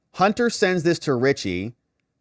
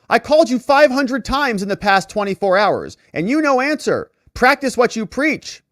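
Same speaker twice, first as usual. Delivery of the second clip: voicing the woman; 10 semitones higher, 5 dB louder than usual. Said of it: "This woman responds to him".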